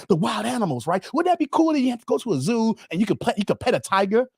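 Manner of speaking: lightly voiced brochure pitch; door-to-door preacher. Carl showing Dave the brochure, mildly eager preacher. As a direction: sell the brochure with earnest enthusiasm. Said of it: "I gave you the pitch".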